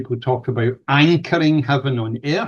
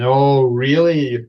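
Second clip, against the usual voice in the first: drawn-out mock doubt, a little louder; sceptical; 4 dB louder, much slower than usual. Healer voicing doubters in the audience, sceptical. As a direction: stretch it out like an unconvinced listener. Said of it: "people sitting there saying".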